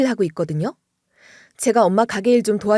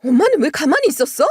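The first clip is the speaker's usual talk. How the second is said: higher and louder, exasperated; upset confronting; 7 semitones higher, 4 dB louder than usual. Retold or imitated. Daughter confronting her mother in frustration, higher and louder. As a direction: demand an answer from your mom. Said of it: "엄마한테 이렇게 따지고 말았는데요".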